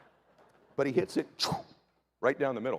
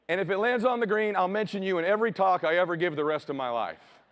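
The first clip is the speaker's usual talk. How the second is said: mock-earnest bargaining prayer; 2 semitones higher than usual. Father praying for the shot, mock-earnest plea. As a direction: beg the Lord like a desperate golfer. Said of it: "I immediately start praying".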